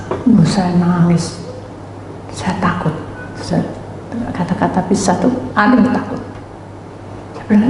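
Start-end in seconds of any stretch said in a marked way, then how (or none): none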